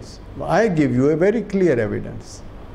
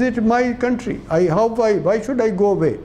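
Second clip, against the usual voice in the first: imitating a defiant girl; 4 semitones higher than usual. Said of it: "And she says".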